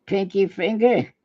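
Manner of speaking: slow mock movie-hero address; lightly hammed-up, drawn-out order to a body part; mock command. Trying the film hero's trick on his own finger, mock command. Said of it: "I'll say".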